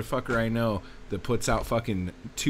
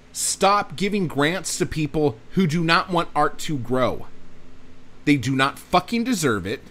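angry rant; 4 semitones higher, 4 dB louder than usual. Real, not acted. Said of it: "I'm just getting all upset now".

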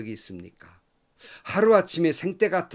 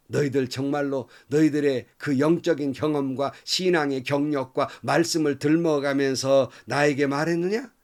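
sarcastic. Retold or imitated. Job answering his friends, bitter sarcasm. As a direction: throw their comfort back at them. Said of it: "이렇게 비꼬는 말이에요".

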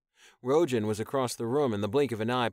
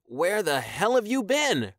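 higher, louder angry demand; 9 semitones higher, 6 dB louder than usual. Acted. Corey confronting Taion after weeks missing, angry demand. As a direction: scold a friend who vanished. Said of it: "Corey demanded".

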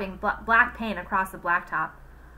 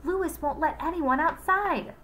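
shouted back; 8 semitones higher than usual. Acted. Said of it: "somebody shouted back".

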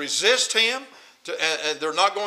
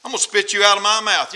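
emphatic, indignant pronouncement; heated scripture rebuke; mad warning; 3 semitones higher, 4 dB louder than usual. Acted. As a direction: read it as an angry threat, hitting the middle hard. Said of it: "I'm so mad I can spit nails".

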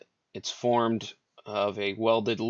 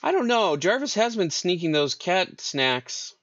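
teasing; 4 semitones higher than usual. Pretend. GM teasing about cat snacks.

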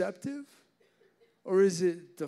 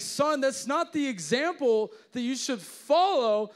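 mock stern dad; 8 semitones higher, 5 dB louder than usual. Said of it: "I'm like".

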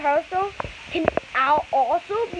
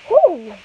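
loud relieved exhale; 4 semitones higher, 10 dB louder than usual. Real, not acted. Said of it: "I'm running out of breath".

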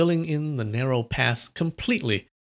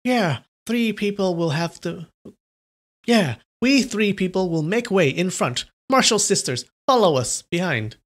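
middle-aged nuns; 5 semitones higher than usual. Acted. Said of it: "two middle-aged nuns said".

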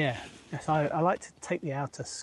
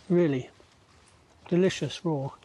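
talking with a mouthful of beans; chewing while speaking; mouth full. Real, not acted. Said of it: "Excuse me, talking in my mouth open".

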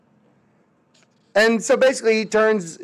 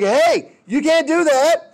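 squeaky high mock Britain and France; high, mock-indignant countries; mock high protest; 11 semitones higher, slower than usual. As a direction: pitch it way up like a whiny complaint. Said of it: "Britain and France are like".

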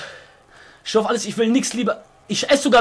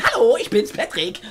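Patrick; 4 dB quieter than usual. Pretend. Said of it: "Ich könnte in so einer Comicfigur sein".

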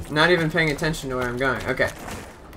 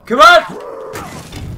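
straining cry; 12 semitones higher, 7 dB louder than usual. Real, not acted. Straining for a kill.

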